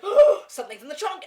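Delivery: high, loud, laughing; mock dramatic reveal. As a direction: overplay the cliffhanger line. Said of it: "It was like".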